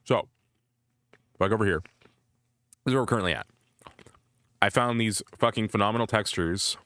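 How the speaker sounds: talking around an ice cube; ice in mouth. Real, not acted. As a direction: ice cube in mouth, words a bit thick. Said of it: "I'm putting an ice cube in my mouth".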